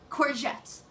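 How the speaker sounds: anguished cry. Acted. Repeated climax word.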